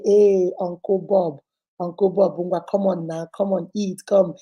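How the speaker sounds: coaxing. Retold or imitated. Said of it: "I started petting him".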